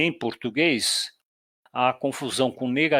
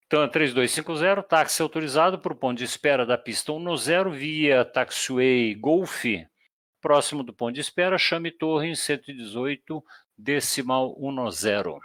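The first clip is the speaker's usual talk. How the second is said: controlador no rádio. Shown as a demonstration. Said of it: "Então vai".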